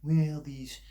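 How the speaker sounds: put-on first stab at a Southern accent; lightly put-on Southern accent; Doctor Phil. Mocking a TV doctor's advice, attempted Southern accent. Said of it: "what Doctor Phil says".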